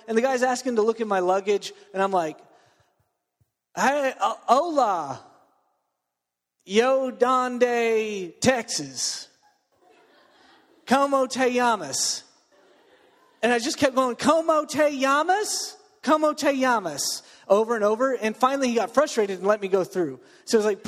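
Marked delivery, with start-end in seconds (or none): 3.7-12.2 hammed-up Texas redneck accent mangling Spanish, higher and chuckling; mock redneck accent. Preacher retelling the Cuban border guard scene, hammy redneck accent. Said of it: "I busted out my, my redneck accent". 14.1-17.2 put-on slow, higher redneck accent repeating the Spanish, stretched out. Preacher repeating bad Spanish to the border guard, redneck accent. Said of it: "shout bad Spanish at somebody in a redneck accent".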